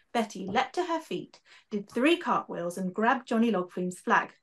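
lively storybook narration with character voices; story reading. A narrator's reading. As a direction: read it like a children's author bringing it to life. Author reads her book aloud.

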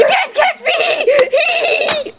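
high slow teasing yell; sing-song taunt; taunting shout. Acted.

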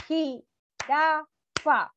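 "Jirafa" stretched very slowly, JI-RA-FA; syllables split. Shown as a demonstration. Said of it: "Cuántas sílabas tiene". ("Jirafa" muy lento, sílaba por sílaba)

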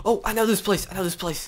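high loud relieved shout; excited yelling. Real, not acted. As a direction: shout it in relief mid-escape. Yelling while running away.

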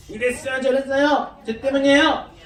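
light acted tattling; a touch of whiny blame; mock complaining. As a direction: imitate someone grumbling and blaming. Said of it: "불평불만하고 원망하는 거".

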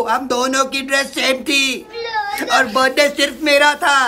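whiny fake sobbing; mock crying. Girlfriend sobs to boyfriend about her sister, mock crying. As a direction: sob it out like a spoiled sister. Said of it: "रोना बंद कर दे".

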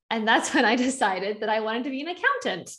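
said through a real laugh; chuckling at the irony; amused laughing aside. Real, not acted. Laughs at own turn.

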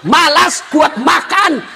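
half-hearted scolding rant; hammed-up insults, partly shouted; wife insulting her lazy husband, mock anger; mock cursing wife. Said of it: "tidak boleh maki-maki".

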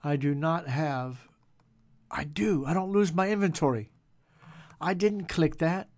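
an upset gamer arguing with the game; agitated protest. Real, not acted. Protests lost inventory.

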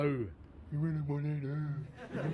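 can't keep a straight face on the threat; laughing mock hard man. Thug cracking up mid-threat, laughing and slow. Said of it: "That's the way you're saying it".

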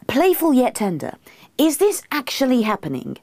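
high, incredulous echo; can't believe he is being asked this; disbelieving. A narrator's reading. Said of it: "Pete, disbelievingly".

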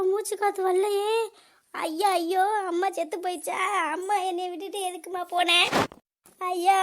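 acted daughter's wailing over her mother; hammed-up mourning cry; tearful lament. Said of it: "ஏன் இப்படி அழுதுகிட்டு இருக்க".

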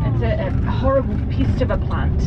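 New Zealand accent, "pest" said like "pist"; broad kiwi accent. Real, not acted. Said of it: "my very thick New Zealand accent can come through".

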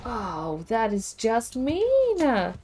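slow, high drawn-out whine; aggrieved, climbing whine; whiny complaint. Real, not acted. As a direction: stretch it out like a hurt protest. Complains about the game's cruelty.

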